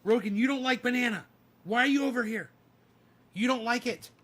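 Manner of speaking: high, fast teasing voice; teasing dog talk. Retold or imitated. Owner talking to his dog Rogan, high fast teasing. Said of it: "Rogi is just like".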